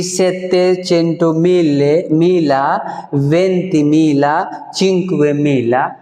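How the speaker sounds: each part split with मिले and मिला tacked on; wrong way demo. Shown as a demonstration. Teacher demonstrating how not to read it. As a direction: show the mistaken reading. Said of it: "अब ऐसा नहीं कहेंगे".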